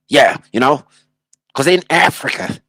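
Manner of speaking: mock glitchy robot Tate. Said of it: "anyone who talks like a robot".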